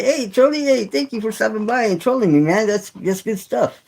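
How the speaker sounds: high-pitched mock gratitude; mock-friendly greeting. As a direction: hail a heckler in a high, cheery mock voice. Greets a troll, acted.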